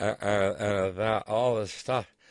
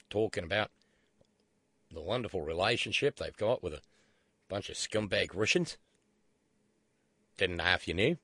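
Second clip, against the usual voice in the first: put-on Australian accent; 3 semitones lower than usual. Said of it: "Although not in that accent".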